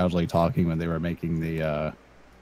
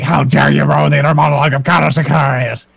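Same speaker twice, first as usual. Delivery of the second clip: higher, louder mock indignation; imitating an outraged friend; 6 semitones higher, 6 dB louder than usual. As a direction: play the furious friend. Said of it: "he just gets so fucking angry".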